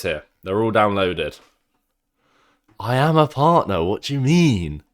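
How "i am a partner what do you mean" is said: loud, high-pitched affronted retort; indignant protest. Real, not acted. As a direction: push it up and out, as if affronted. Protests a doubt about partner status.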